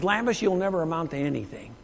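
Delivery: superintendent's put-down. Retold or imitated. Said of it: "you know what he did".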